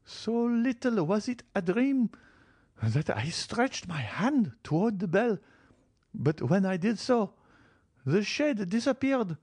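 put-on high, slow old grandmother's voice; old lady telling a ghost vision. Marchioness describing the white figure to Villefort, high and slow. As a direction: recount the apparition, high and deliberate. Marchioness insists it was no dream.

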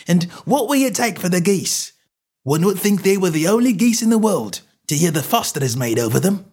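high, fast, indignant stallholder; exasperated outburst, pitch right up; angry tirade. A narrator's reading. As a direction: rant like a pestered tradesman. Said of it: "provoked a burst of anger".

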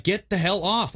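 lightly acted high-pitched outburst; mock angry order. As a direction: imitate someone ordering people off, pitch jumping up. Acts out people ordering them off.

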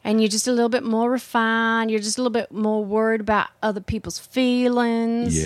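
demonstrating a genteel Southern accent; light, refined Southern accent. Shown as a demonstration. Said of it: "that's how you do the Southern accent".

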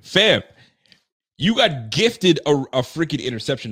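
loud, high outburst at the player; What? Fam, shouted up high in disbelief; outraged disbelief. Real, not acted. Fan yelling at the player on the clip, loud and high.

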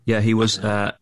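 talking between sips of shake; drinking while talking, mouth wet; slurping protein shake. Real, not acted. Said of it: "I'm just slurping down some fucking protein shake".

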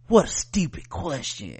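creepy Southern whispered put-down; whispery Southern accent. Retold or imitated. Mother brushing off her daughter, whispery Southern accent. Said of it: "in that whispery Southern accent".

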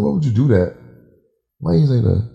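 retold exasperated demand; dead mad. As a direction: re-enact scolding someone in disbelief. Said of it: "You was dead mad".

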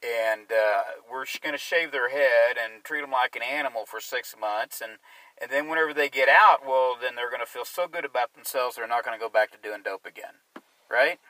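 mock endorsement of a harsh policy; sarcastic. Real, not acted. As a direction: pretend to believe it, ending on a pointed question. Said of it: "I'm being sarcastic here".

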